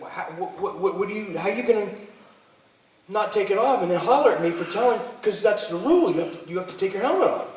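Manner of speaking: high, pleading and speeding up; six-year-old insisting on the rule; bewildered little kid. Retold or imitated. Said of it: "I was like".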